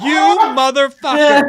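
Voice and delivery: loud, high laughing yell; laughing mock outrage. Gamer cursing the game company, loud laughing yell.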